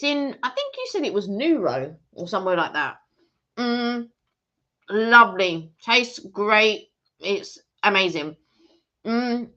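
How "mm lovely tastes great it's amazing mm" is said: talking through a mouthful; chewing while speaking; mouth full. Real, not acted. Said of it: "eat with your mouth full".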